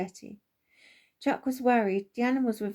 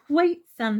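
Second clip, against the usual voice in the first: calling out; 5 semitones higher, 7 dB louder than usual. Acted. Father stops excited son.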